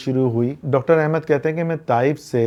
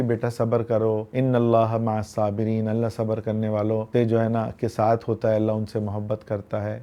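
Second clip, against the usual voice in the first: soothing grandmother; 2 semitones lower, 3 dB quieter than usual. Retold or imitated. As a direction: hush the little one gently. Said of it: "تسلی دینے لگی".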